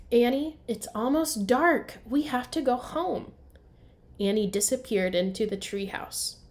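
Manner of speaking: storybook read-aloud for young kids, characters voiced; story narration. A narrator's reading. Teacher reading to first graders, lively storybook narration.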